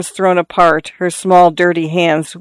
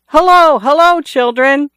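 shout; 9 semitones higher than usual. A narrator's reading. Father calling his children in the garden, cheerful shout. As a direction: call out to the hidden kids. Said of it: "He shouted".

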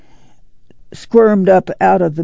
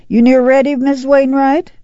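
calling out; 9 semitones higher than usual. A narrator's reading. Calling to neighbours down car.

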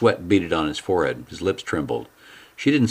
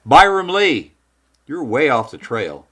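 Lee's voice; 8 semitones higher, 3 dB louder, slower than usual. Acted. Voiced character Lee.

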